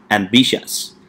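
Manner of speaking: ambitious with the weight on BI, am-BI-tious; teacher models ambitious, stressing the second syllable. Shown as a demonstration. Teacher modelling the word for students, second syllable stressed. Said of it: "we stress on the second syllable".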